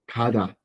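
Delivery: "kada" starting with a K sound, D in the middle; initial G as K. Shown as a demonstration. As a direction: say "kada" with K first, then a voiced D. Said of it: "se pronuncia como una K".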